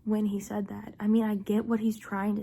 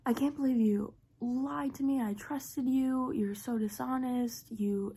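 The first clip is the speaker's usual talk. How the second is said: retold freakout; 3 semitones higher than usual. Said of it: "he's, like, freaking out".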